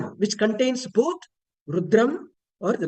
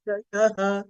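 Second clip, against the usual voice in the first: "Chayaha" with a raised ya; upward intonation on ya. Shown as a demonstration. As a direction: let "ya" rise in "Chayaha". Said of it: "the upward intonation for ya".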